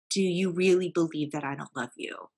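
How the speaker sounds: steady, serious question with a falling end; firm and serious. Retold or imitated. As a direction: ask it firmly, leaving no room for a joke. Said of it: "I said it very firmly and very seriously".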